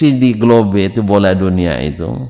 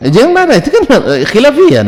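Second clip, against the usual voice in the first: mock pleading; 14 semitones higher, 5 dB louder than usual. Pleading with the annoyed questioner.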